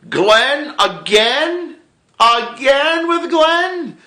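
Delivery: very high, slow, drawn-out wail; whiny disbelief. Retold or imitated. Betrayed fan wailing at the writers in high drawn-out despair. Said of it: "And I was like".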